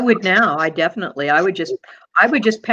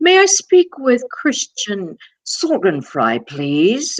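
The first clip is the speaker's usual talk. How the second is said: mock pompous formal manner, higher; 4 semitones higher than usual. Retelling a father's long-distance calls: imitating a pompous formal caller. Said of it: "he would always be so pomp and circumstance".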